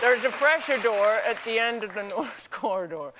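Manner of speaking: easy American read; crisp American Rs throughout; American accent. Acted. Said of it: "if I could do that now".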